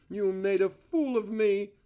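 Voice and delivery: angry accusation; rage. A narrator's reading. Cora accusing Val, a mild angry accusation. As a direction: throw the accusation at him. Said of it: "shaking with rage".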